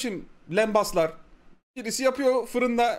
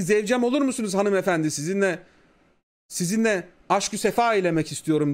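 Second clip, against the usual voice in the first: courtly elf; 3 semitones lower than usual. Retold or imitated. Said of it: "Eski İngilizce kullanır, adabıyla".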